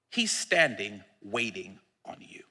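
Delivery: hushed, breathy plea to the listener; soft intimate whisper. Real, not acted. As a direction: lean in and whisper it. Intimate altar call whisper.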